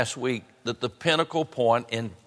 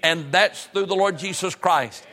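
raised, emphatic sermon delivery; preaching; 6 semitones higher, 3 dB louder than usual. Real, not acted. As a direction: preach it with higher, punched key words. Preaches salvation to congregation.

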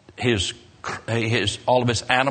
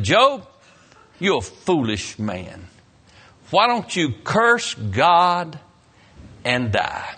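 scolding wife; 4 semitones higher, slower than usual. Retold or imitated. Wife scolds Job in story.

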